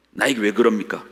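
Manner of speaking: ordinary talk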